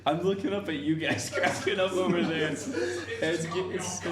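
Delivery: loud, high, helpless giggling speech; talking through laughter. Real, not acted. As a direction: try to explain while cracking up. Cracking up watching the others laugh.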